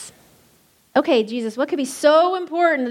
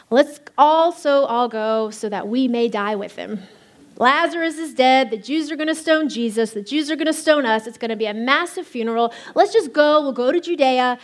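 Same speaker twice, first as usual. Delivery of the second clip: gloomy Thomas; 3 dB louder than usual. Acted. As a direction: play Thomas as a doom-laden Eeyore. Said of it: "Jesus had an Eeyore".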